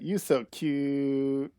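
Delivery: slow, doting coo; cooing at the cat. Real, not acted. Streamer cooing at her game cat, slow and doting.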